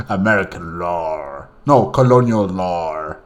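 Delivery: lightly imitated American South accent; slow mock Southern drawl, stretching the words. Player fumbling then correcting a favourite quote, mock Southern American accent. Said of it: "with that Southern, uh, American accent".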